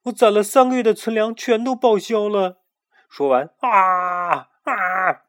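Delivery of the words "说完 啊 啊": high, loud crying complaint; wailing and crying. A narrator's reading. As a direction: sob it out, voice breaking. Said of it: "嚎啕大哭起来". (带哭腔的嚎啕)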